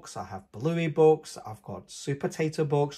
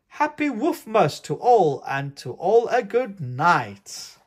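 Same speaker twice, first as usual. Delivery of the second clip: higher, louder call, slowing at the end; exclaiming; 5 semitones higher, 8 dB louder, slower than usual. Acted. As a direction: shout the farewell then draw it out. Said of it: "I heard him exclaim".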